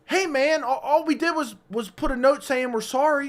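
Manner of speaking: placating. Retold or imitated. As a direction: talk him down, hands up. Calming the angry guy.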